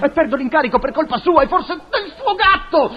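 high, indignant blaming; angry accusation. Acted. Engineer blaming portiera for lost commission, high and angry. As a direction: pitch up as the blame piles on.

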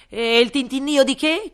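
loud, high royal command; booming king. Acted. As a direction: bellow it like a pompous king. King asks. (re tonante)

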